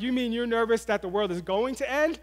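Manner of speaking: mildly incredulous, checking he heard it right. Retold or imitated. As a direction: question it with mock disbelief. Dad double-checks son's odd worry.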